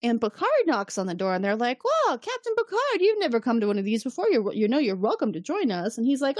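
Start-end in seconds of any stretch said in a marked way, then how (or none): 1.8-6.0 high, bright whoa then quick friendly invite; mock surprised greeting. Crew greeting Picard at the poker table, surprised. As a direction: greet the captain with a startled whoa.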